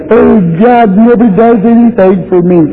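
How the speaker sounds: high, whiny complaining voice; mock whiner. Preacher mocking a self-pitying complainer, high whine.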